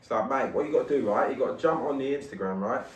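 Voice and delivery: put-on light London accent, mate. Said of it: "London accent?".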